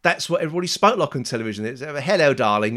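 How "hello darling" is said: plummy clipped English, quick imitation; a light mock of a posh BBC presenter; posh old TV voice. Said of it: "It was all very, very much like that".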